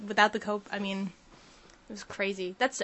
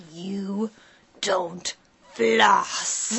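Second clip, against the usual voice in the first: louder mock-stern scold; 3 semitones lower, 4 dB louder, much slower than usual. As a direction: scold like a cold dentist. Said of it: "She was like".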